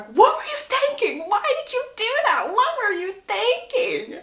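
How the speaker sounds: very high, scolding outburst; hammed-up exasperated mother's yell; mock shouting. Mother berating her son after the wedding, high mock shouting. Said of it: "Violet is shouting at Gregory".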